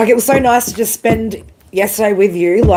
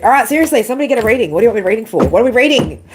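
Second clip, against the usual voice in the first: higher and brighter, shaking off the emotion; brisk change of subject; 4 semitones higher, faster than usual. Real, not acted. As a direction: push on cheerfully, up in pitch. Pulling herself out of tears.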